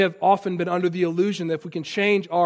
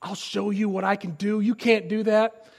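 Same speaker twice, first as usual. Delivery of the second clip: mock angry child; 4 dB quieter than usual. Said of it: "they get so mad".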